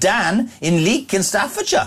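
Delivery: Welsh-accented words. Reading out callers and their towns: Welsh accent. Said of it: "Why am I doing a Welsh accent".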